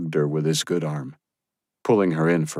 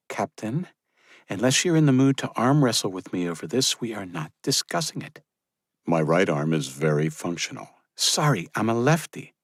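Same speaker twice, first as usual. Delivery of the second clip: higher, teasing woman's voice; playful young woman; 3 semitones higher than usual. Acted. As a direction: tease him playfully. Josephine teasing.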